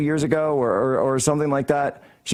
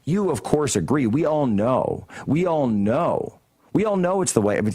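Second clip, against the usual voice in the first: mocking a smug, knowing tone; a hammed-up we-all-know-it voice; 2 semitones higher than usual. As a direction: act like everyone already agrees. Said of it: "a tone where it says".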